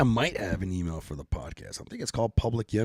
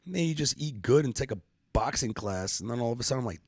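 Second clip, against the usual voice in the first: ordinary delivery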